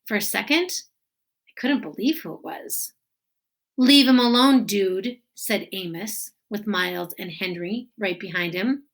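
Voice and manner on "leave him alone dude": firm, loud, raised voice; loud warning. Acted. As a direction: shout him off, leave him alone. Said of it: "repeated calmly".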